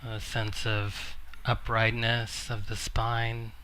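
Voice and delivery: measured meditation guidance with long pauses; guided meditation. Acted. Teacher guiding a seated group into noticing the body, calm meditation voice. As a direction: gently guide listeners inward, leaving long silences.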